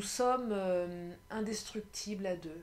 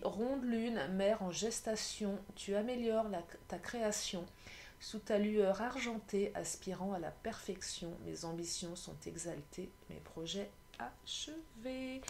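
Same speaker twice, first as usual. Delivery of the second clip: poem reading. Acted. Tarot reader reciting the full moon card, poem reading.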